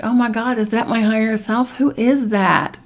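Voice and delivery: a touch of awe, slowing at the end; amazed. Retold or imitated. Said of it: "and I'm like".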